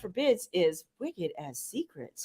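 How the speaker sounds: a hint of a TV prize hostess; game show hostess. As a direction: present the prize like Vanna. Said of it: "I feel like it should be Vanna".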